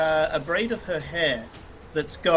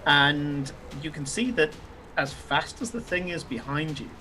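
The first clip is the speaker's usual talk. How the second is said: game master narration; 3 semitones lower than usual. A narrator's reading. Game master sets the scene.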